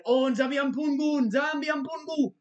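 a hint of a prayerful plea; reverent invocation. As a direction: call on Nzambi Ampungu in mock praise. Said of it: "He said".

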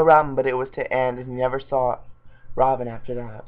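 reading voice for a silly story; fanfic reading. Acted. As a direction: read the bad fanfic out straight. Reads Batman fanfic aloud.

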